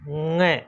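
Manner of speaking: ङ as a held nasal ng from the back of the mouth; teacher demonstrating ङ as ng; nasal ng sound. Shown as a demonstration. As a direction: sound out ङ slowly like ng. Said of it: "इसका उच्चारण करेंगे हम".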